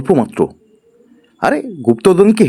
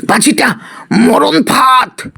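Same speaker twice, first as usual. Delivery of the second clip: high, slow shouted realization; alarmed cry; 5 semitones higher than usual. Acted. Raghu crying out that the flute is a trap, high and slow. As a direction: exclaim it in dread.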